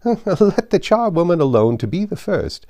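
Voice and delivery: high, loud coarse charwoman voice; cockney charwoman crying out. Acted. Charwoman crowing to old Joe, high and loud. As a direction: cry it out, brash and pleased with herself. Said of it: "cried she who had entered first".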